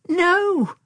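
high, loud, drawn-out teasing no; laughingly. A narrator's reading. Girl answering Tom's question, laughingly. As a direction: toss it out high, as if amused. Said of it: "she laughed".

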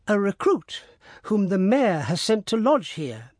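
high, quick cover story; a servant hastily making an excuse, pitched high; nervous servant. A narrator's reading. Servant lying to the prosecutor, high and nervous.

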